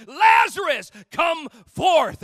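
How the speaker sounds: loud, high call of command, full of hope; hopeful cry. Acted. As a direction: call him out of the tomb with hope. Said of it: "Jesus cries out with a voice of, of hopefulness".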